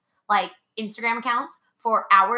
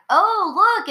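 high, loud imitation of cooing colleagues; sing-song, put-on surprise; mock delighted discovery; 10 semitones higher, 6 dB louder than usual. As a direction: imitate someone gleefully spotting something. Retells teachers spotting her Instagram.

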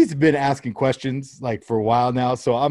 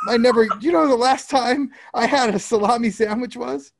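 high, exasperated complaining; comic outrage, voice climbing high; exasperated rant; 10 semitones higher than usual. Real, not acted. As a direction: vent about the stolen salami, pitched way up. Ranting about son eating salami.

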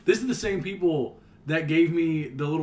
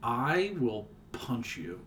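mock threat; 3 semitones lower, 5 dB quieter, much slower than usual. Mock threat defending quokkas.

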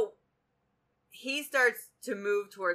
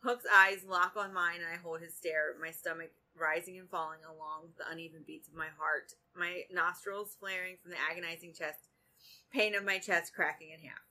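reading a novel aloud. A narrator's reading. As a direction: read the romance scene out, taking your time.

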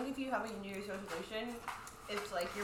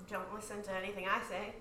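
muffled, far from the mic; 6 dB quieter than usual. Real, not acted. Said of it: "she'll sound, like, a little muffled".

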